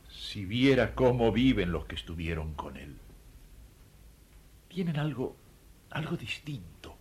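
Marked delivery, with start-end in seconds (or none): 4.7-7.0 whisper. Acted. Confides his faith to the minister.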